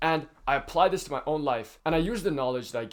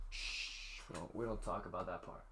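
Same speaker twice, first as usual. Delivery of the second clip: mock-secretive whisper, much lower and softer; hushed secret; 7 semitones lower, 16 dB quieter than usual. YouTuber hushes his admission about wanting viewer attention, whispering.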